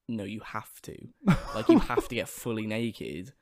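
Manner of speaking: slow, measured retold insistence; adamant. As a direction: lay down the rule firmly, with a laugh. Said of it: "they were very, very adamant".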